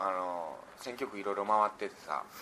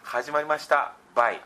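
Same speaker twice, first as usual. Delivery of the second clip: clumsy attempt at Hakata dialect, pitched up; mock Hakata dialect; 4 semitones higher, 4 dB louder than usual. Shown as a demonstration. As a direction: try out a Hakata-ben ending. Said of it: "語尾全部バイつけていくしかない". (下手な博多弁)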